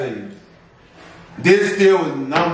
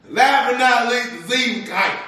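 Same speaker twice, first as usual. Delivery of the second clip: silly announcer voice; 7 semitones higher than usual. Pretend. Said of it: "Stop talking like that".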